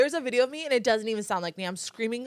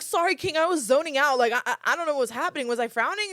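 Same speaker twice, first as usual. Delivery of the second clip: sarcastic sweet; 5 semitones higher, 6 dB louder than usual. Retold or imitated. Sarcastic reply to creep.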